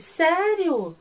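high, loud, drawn-out happy surprise; delighted. Retold or imitated. Type learns Turn is coming back, acted delight. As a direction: squeal the question in acted delight. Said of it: "Ele ficou todo feliz".

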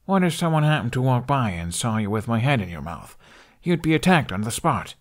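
put-on a boy warning his friend; Hiccup voice. Hiccup scolding Toothless.

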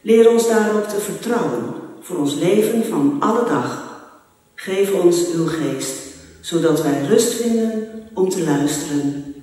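church prayer. Acted. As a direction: pray it gently for the congregation. (rustig, ingetogen gebed)

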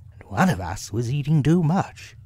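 high, emphatic reproach; lifted, scolding storybook animal voice; Rabbit. A narrator's reading. Rabbit blaming Pooh's appetite, high reproving voice.

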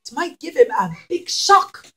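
plain reading voice

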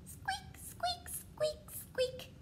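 tiny, high, soft squeaks; mouse squeak. Pretend. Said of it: "That is what they say".

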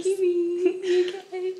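high slow pet-talk voice. Real, not acted. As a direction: ask the dog gently. Talking to pet.

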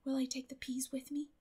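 soft, small question; meekly. A narrator's reading. Anne meekly asking Marilla about the peas, soft. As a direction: ask timidly. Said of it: "said Anne meekly".

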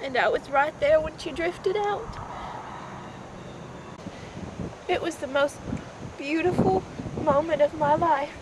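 low, quiet, halting recollection; subdued, mournful remembering; hushed grief. Acted. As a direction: let long pauses sit between soft phrases. Mother recounts her daughter's death.

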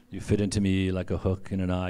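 femme fatale voice. Retold or imitated. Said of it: "you know, that voice".

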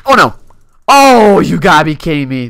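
loud, high exasperated oh; loud disbelieving complaint. Real, not acted. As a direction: burst out in disbelief. Dying to cocky move.

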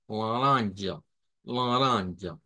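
"laranja" with a soft ra, la-RAN-ja. Shown as a demonstration. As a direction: stress the soft r. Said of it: "esa ra, ra, de la ra". ("laranja" con R suave)

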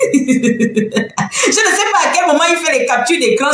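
slow, laughing disbelief; amused, slow and laughing. Real, not acted. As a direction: say it through real laughter. Laughs at screenshot habit.

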